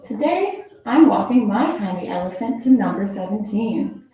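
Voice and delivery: gentle storybook read-aloud; expressive picture-book reading; reading to children. Acted. Reads second picture book.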